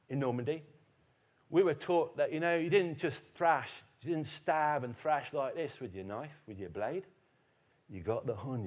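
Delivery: lightly voiced Cockney veteran; Cockney accent. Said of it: "he had a Cockney accent. He talked like this".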